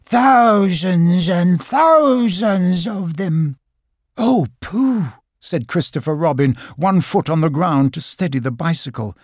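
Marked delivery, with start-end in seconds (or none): 0.1-3.6 higher, slow and drawn out in wonder; awed excitement. Acted. Pooh marvelling at the swarm, slow awed excitement. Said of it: "he cried". 4.2-5.1 delighted. Acted. Christopher Robin delighted.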